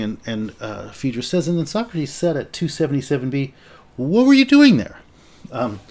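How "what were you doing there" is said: high, loud prying question; pointed question. Shown as a demonstration. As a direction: ask it like you're prying. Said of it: "maybe I should put a more innocent tone on it".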